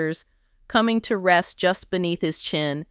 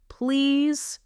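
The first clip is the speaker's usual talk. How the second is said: high, drawn-out desperate plea; gasping, pleading for relief; gasped plea; 9 semitones higher than usual. A narrator's reading. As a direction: plead helplessly on a raised pitch. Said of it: "he gasped".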